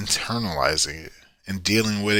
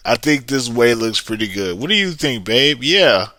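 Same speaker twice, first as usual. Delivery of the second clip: upbeat acted agreement; 4 dB louder than usual. Partner proposing a shared road to babe, upbeat and agreeable. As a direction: play an eager suggestion, lifting the questions.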